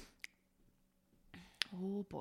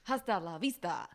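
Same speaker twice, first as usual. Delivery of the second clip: Walken impression; 4 semitones lower, 4 dB quieter than usual. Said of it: "in a Christopher Walken impression".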